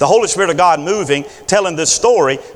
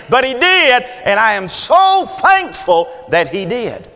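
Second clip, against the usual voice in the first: lightly voiced woman, higher and earnest; voiced grateful woman; 6 semitones higher than usual. Forgiven woman thanking God, high fervent preaching voice.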